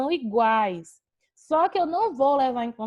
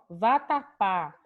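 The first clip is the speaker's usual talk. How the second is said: VATAPÁ split into va, ta, pá; teacher sounding out vatapá, one syllable at a time; 3 semitones lower, much slower than usual. Shown as a demonstration. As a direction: separate the three syllables of vatapá. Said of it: "A gente tem três sílabas".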